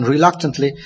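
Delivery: reluctantly leaned on, falling and weighty; stress on reluctantly. Shown as a demonstration. Preacher underlining Harvey's reluctance, reluctantly stressed. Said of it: "underline again".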